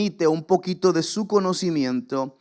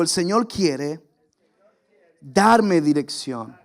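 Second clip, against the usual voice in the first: slow call and response; 2 semitones lower, slower than usual. Shown as a demonstration. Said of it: "Diga conmigo".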